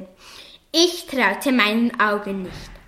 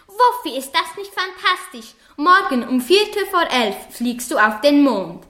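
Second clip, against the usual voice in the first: excited master; 2 semitones higher than usual. Acted. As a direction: gush the news at the dog. Master excitedly tells dog news.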